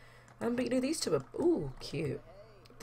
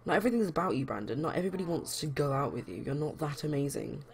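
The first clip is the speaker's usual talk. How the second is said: yelling. Acted. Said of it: "He's gonna keep yelling at him".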